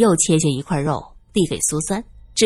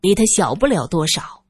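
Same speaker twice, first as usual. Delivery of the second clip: cold; 2 semitones lower than usual. Acted. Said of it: "冷冷地说".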